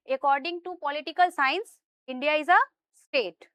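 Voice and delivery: very slow, word by word; slow emphatic correction. Shown as a demonstration. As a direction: spell it out for the class slowly. Teacher stresses key definition.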